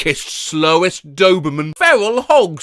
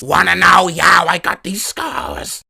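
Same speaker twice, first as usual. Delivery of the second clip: Joker voice. Pretend. Joker quote read from comic.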